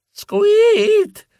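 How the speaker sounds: high mouse squeak. Acted. Mouse hero squeaks in story. (squittio acuto da topo)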